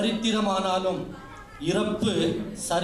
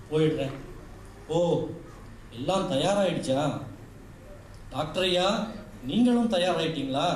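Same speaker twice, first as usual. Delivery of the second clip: a hint of a tender unborn daughter, turning pleading and sorrowful; unborn girl's voice. Unborn girl pleads with mother. (கருவில் இருக்கும் பெண் குழந்தையின் கெஞ்சும் குரல்)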